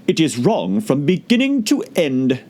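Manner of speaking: firm creature verdict; flat final judgement; decided. A narrator's reading. Caterpillar judging the poem, decided. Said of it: "said the caterpillar decidedly".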